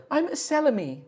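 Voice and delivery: wood spirit. Acted.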